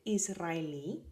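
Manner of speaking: Israelí with the stress on the final í; Spanish pronunciation. Shown as a demonstration. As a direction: land on the last í of Israelí, letting it rise. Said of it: "that's how you pronounce that word".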